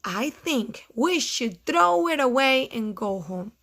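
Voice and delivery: Toad passing it on at ordinary volume; toned-down storybook Toad; Toad repeating robins. Acted. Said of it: "he said".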